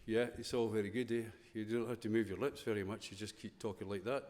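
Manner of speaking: mock Scottish accent with barely moving lips, a bit fast; Scottish mumble. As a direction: lightly imitate a Scottish speaker who keeps his lips still. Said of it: "we talk like that a lot".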